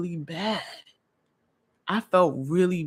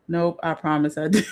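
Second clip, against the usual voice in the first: laughing. Real, not acted. Laughing at comment.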